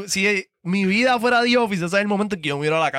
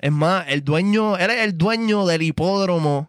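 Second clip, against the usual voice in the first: show host intro. Acted. Host introduces King Impact to the audience, hyped.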